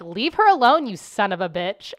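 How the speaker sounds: yelling at the bully; retold yell. To the bully on the playground, a shouted leave her alone.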